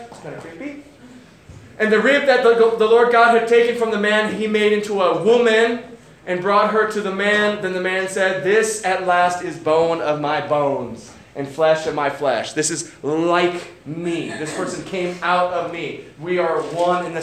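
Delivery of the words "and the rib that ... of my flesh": a lightly raised, measured Bible reading; scripture reading. Acted. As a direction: read the passage out to the congregation. Reads Genesis passage aloud.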